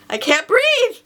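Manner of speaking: retold choking panic, half-playful; mock panic. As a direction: cry out like you can't get air. Retelling choking on fly.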